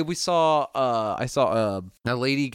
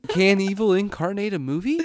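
higher "Can evil incarnate a movie", rising on "movie"; imitating reporter question; 6 semitones higher than usual. Co-host copying the host, "movie" rising high. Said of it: "I can't even say it the way you did".

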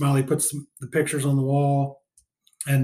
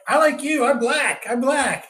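higher-pitched mock plea; imitated pleading; 9 semitones higher, slower than usual. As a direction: plead as the grocer, pitched well up. Retold grocer's plea to the crowd.

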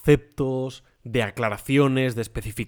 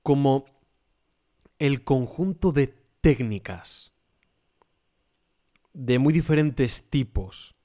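formal. Shown as a demonstration. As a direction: recite it like an encyclopedia entry. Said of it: "voy a ser un poco formal".

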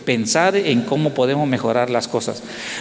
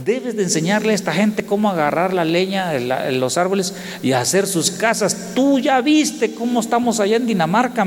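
raised, heated complaint as Klaus; mock angry Klaus; 5 semitones higher than usual. Preacher voicing his angry Danish friend, raised and heated. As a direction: play the Danish friend annoyed at the village. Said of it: "Klaus estaba bien enojado".

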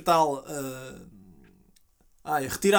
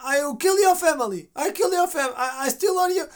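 threat; 9 semitones higher than usual. Retold or imitated. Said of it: "o gajo a dizer".

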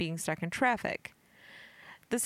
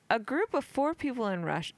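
giggly; 3 semitones higher than usual. Real, not acted. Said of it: "I'm so giggly right now".

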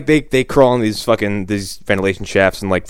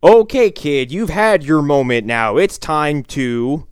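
higher, then slowing to a halt; hammed-up annoyed emcee; mock stern host; 4 semitones higher, slower than usual. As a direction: cut the kid off, then trail off. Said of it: "verbatim Hocus Pocus".

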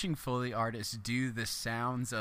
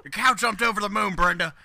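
laughing; 5 semitones higher, 6 dB louder than usual. Retold or imitated. Laughing, playing the farmer.

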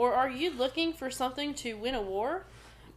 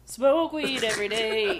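laughing; 5 dB louder than usual. Real, not acted. Quoting a meme.

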